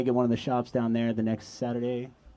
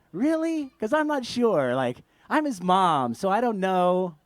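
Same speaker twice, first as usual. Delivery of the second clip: mom's doubtful reply; 4 semitones higher, slower than usual. Retold or imitated. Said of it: "Rebecca was like".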